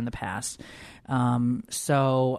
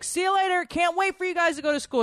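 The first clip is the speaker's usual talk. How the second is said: much higher, sing-song mom cheering the school start; eager mom. Retold or imitated. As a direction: chirp it like a mom counting the days. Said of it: "My mom's like".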